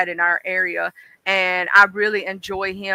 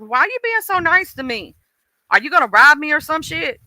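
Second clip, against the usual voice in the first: higher, incredulous New Yorker voice; lightly voiced suspicious stranger; mock suspicious New Yorker; 6 semitones higher than usual. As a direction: imitate a wary stranger, pitched up. New Yorkers' suspicious reaction mocked.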